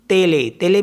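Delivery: तेले with a clear final ay for the accented E; French télé, both E sounds as ay; French pronunciation. Shown as a demonstration. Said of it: "T ई L ई".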